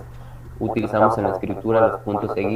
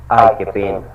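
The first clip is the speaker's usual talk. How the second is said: mock pity exclamation; 5 dB louder than usual. Shown as a demonstration.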